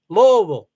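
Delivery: Louisville said as two syllables, LOO-vul; local Louisville. Shown as a demonstration. Teaching the audience how locals say it, LOO-vul. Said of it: "That's how you say it".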